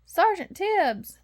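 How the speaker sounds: high, loud, drawn-out call of relief; relieved cry. Acted. Lost puppy crying out in relief to the cat. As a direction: cry out the name, saved at last. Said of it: "Lucky cried in relief".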